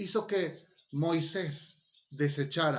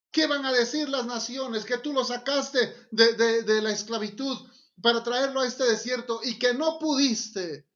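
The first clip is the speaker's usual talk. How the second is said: higher, insistent retold appeal; raised voice of an intercessor; acted pleading protest; 5 semitones higher, 4 dB louder than usual. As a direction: argue earnestly on the people's behalf. Voicing Moses pleading with God.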